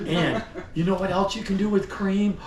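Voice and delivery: laughing. Real, not acted. Salesman laughs at his own joke.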